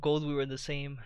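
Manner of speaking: talking through a yawn; words stretched by a yawn. Real, not acted. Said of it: "sorry, I was yawning".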